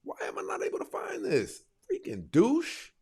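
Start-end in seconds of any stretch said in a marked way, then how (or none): none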